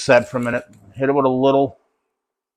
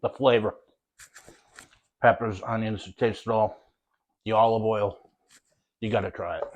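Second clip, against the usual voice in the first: words through a mouthful of sandwich; chewing while talking; talking with mouth full. Real, not acted. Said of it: "Sorry to talk my mouth full".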